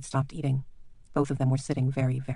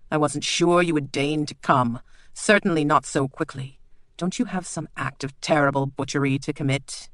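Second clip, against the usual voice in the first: sneering. Acted. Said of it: "and sneered".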